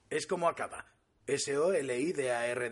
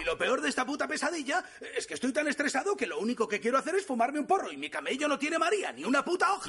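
high-pitched exasperated venting; stressed-out rant; 8 semitones higher than usual. Acted. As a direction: complain in a rising, worked-up stream. Stressed rant about having no weed.

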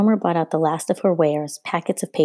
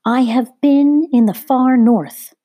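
high, loud calling out; shrill cry; 7 semitones higher, 7 dB louder, slower than usual. A narrator's reading. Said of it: "the woman cried out in a shrilling voice".

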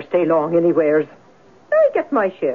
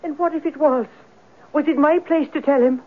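higher, agitated protest; defensive outburst; 7 semitones higher than usual. Acted. Landlady defending herself to the investigator, agitated and high. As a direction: throw his accusation back at him.

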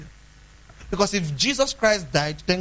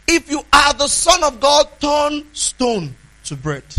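louder, higher taunt that slows down at the end; devil's loud challenge; 6 semitones higher, 7 dB louder, slower than usual. Retold or imitated. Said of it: "But when the devil speaks, he says".

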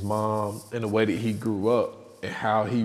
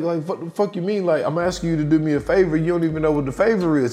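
higher, fast indignant retort; mock exasperated protest, pitched up; retold argument; 5 semitones higher, faster than usual. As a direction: imitate someone arguing back in a rush. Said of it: "sitting there arguing".

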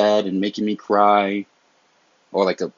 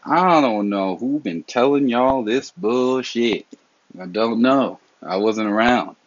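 exasperated retort; 3 semitones higher, slower than usual. Retold or imitated. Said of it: "I'm like".

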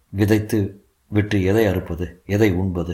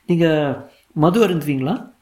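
higher-pitched lady teacher voice; 7 semitones higher than usual. A narrator's reading. Teacher questioning a pupil's father, lady teacher voice.

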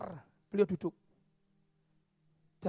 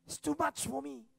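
weeping gratitude; 4 dB quieter than usual. Acted. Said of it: "dia menangis".

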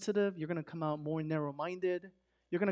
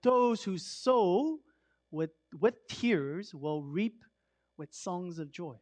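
scripture reading; much slower than usual. Acted. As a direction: savour each line of scripture slowly. Reads the psalm slowly.

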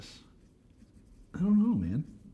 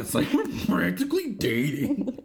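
put-on Valley Girl voice; 4 semitones higher than usual. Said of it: "coming out of nowhere with a Valley Girl voice".

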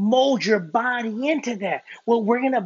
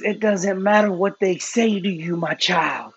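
lightly lowered, gentle voice of God; God speaking; 6 semitones lower than usual. Acted. God reassures a doubting believer, lightly lowered and slowed. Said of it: "God says".

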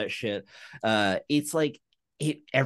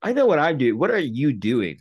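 incredulous; 3 semitones higher, 6 dB louder than usual. Retold or imitated. Mocking the bad Southern accents.

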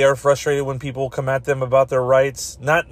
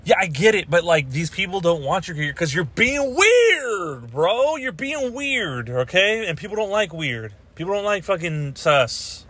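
lecturing retort; 4 semitones higher than usual. Retold or imitated. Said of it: "I'm like".

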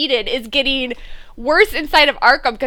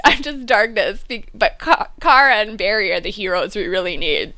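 a hint of a gloomy hero voice; lightly voiced brooding hero; mock brooding Oliver; 3 semitones lower than usual. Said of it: "Oliver goes ... and is all".

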